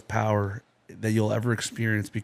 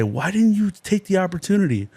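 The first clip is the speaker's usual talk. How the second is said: much higher and louder, searching questions from God; God questioning a soul, higher and louder; 9 semitones higher, 4 dB louder than usual. Retold or imitated. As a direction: ask it as God at judgement, high and raised. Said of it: "And God's gonna say".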